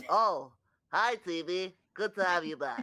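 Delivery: high, loud, squeaky little voice; loud squeaky puppet-creature greeting; Jelly's squeaky greeting. Acted. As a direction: pop up and squeak a cheery hello. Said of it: "pokes out his head ... and says".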